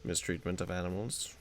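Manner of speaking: pompous 1920s oil baron, lightly voiced; oil tycoon. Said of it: "nineteen twenty oil baron voice".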